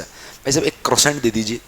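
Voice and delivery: "क्रोसेंट" spoken kro-sent, with the t sounded; "क्रोसेंट" in the everyday Hindi way; wrong croissant. Shown as a demonstration. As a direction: order a "क्रोसेंट" ending in a hard -sent. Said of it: "मैं भी ऐसे ही करता था".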